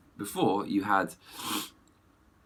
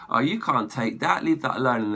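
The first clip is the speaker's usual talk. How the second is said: lightly voiced heroine, a bit higher; hammed-up movie line; mock heroine voice; 5 semitones higher, 5 dB louder than usual. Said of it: "she goes".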